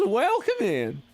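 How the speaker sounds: high-pitched welcome in a put-on Wild West accent. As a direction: greet them like a hollering Wild West local. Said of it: "This is just the accent I'm doing".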